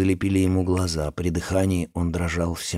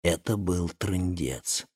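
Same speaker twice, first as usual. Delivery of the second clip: slow, softer careful words; cautious; 3 semitones lower, 8 dB quieter, slower than usual. Acted. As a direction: say it slowly and carefully. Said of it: "осторожно произнёс Александр". (осторожно и медленно)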